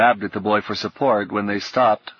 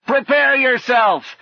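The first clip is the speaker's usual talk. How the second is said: high, slow battle cry; loud knightly war cry; shout; 5 dB louder, slower than usual. A narrator's reading. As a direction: shout a drawn-out challenge. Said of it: "he shouted".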